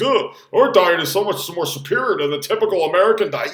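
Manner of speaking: lightly smug mock voice; a hint of a superior vegan. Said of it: "the vegans and the vegetarians".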